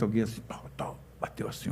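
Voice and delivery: hushed, prayerful whisper while telling the story. Retold or imitated. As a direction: whisper it like a tap during prayer. Tap on shoulder during prayer.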